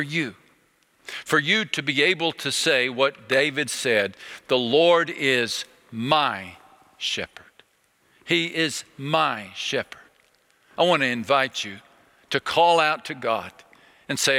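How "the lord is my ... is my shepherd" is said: slow quote. Acted. Preacher quoting David slowly.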